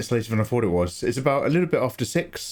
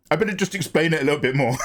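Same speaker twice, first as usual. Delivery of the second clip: mock friend quote; 3 semitones higher, faster than usual. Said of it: "I love when you're just like".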